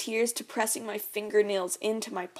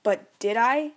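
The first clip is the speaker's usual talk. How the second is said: slurring; 2 semitones higher, 7 dB louder than usual. Acted. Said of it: "he slurs".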